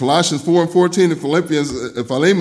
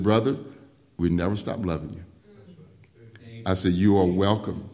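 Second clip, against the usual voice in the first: low, soft and gentle; softly reassuring pastor; tender welcome; 10 semitones lower, 7 dB quieter than usual. Retold or imitated. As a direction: say it like welcoming a son home. Tender welcome to returning man.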